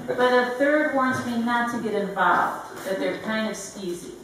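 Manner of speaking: deadpan comic poem with pauses for laughs; wry, deliberate recital; poetry reading. Acted. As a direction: read the story poem in measured phrases, lightly voicing the dialogue. Reads comic narrative poem.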